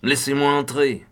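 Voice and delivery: high, loud yell through the keyhole, slowing on the name. A narrator's reading. Doctor yelling through the keyhole at Ackroyd, loud and high. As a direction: bellow to be heard through the door. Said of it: "je hurlai littéralement à travers la serrure".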